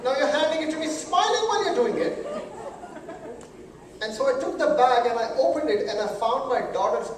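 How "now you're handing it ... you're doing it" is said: mock panic. Panicked imagining of daughter's accident.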